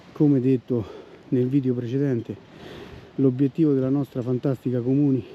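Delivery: panting between phrases; winded after hauling a boar; out of breath. Real, not acted. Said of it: "ma col fiatone".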